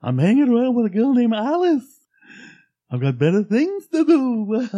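high, loud and fussy; Mad Hatter. Retold or imitated. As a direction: complain in a hurry. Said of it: "the freaking Mad Hatter".

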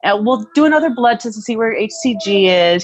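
high-pitched, airily unconcerned mimicry; lackadaisical doctor. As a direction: put the worry off with a casual, lilting "well". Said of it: "He was kind of very, like, lackadaisical".

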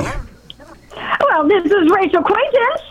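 southern hillbilly drawl; slow rustic drawl. Pretend. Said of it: "Why are you talking like you're some southern, southern hillbilly?".

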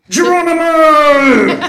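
high, laughing jump shout; shouted Geronimo. Pretend. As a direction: yell it as you leap. Jumping into the pit.

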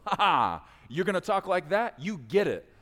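a pleased God answering Abram's selfless request; delighted God. Acted. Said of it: "God goes".

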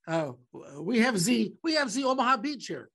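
bad, halting French accent. French guy at airport security greeting an Omaha traveler, French accent. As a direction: imitate a French security guard, badly. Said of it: "not gonna do the French accent".

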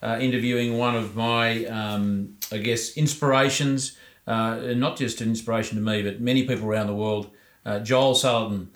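distant from the microphone; off-mic, sounding far away. Real, not acted. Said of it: "if I sound a little bit far away".

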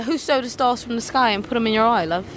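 fluent put-on British accent. Shown as a demonstration. Showing up the other learner with a fluent British accent. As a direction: deliver it as a convincing Brit. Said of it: "Damn, that's just, uh, that's fluent".

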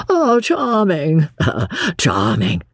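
lightly voiced prince chuckling, charmed; delighted laugh. A narrator's reading. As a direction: coo over the girl with a small laugh.

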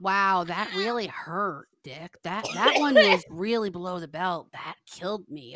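deadpan sarcasm, slowed on the opening; mock hurt. Podcaster answering the caller's insult, dry mock hurt. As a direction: pretend to be wounded, dropping away at the ends.

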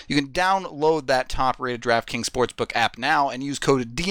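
upbeat sponsor ad read. Acted. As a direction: sell it like a radio spot. Reads sponsor ad.

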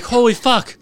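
high and loud through laughter; laughing disbelief. Retold or imitated. The narrator reacting to the heckle, laughing in disbelief. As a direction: laugh in shock at the insult.

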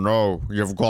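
put-on actor's refusal; hint of a film-star impression; lightly voiced reluctant star. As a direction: refuse in a light mock burr. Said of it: "In this movie, he's so, like, anti-kissing".

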